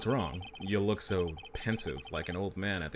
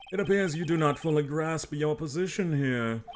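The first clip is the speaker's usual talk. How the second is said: pompous villain; 7 semitones higher, 5 dB louder, slower than usual. Acted. Villain addresses the lawyer.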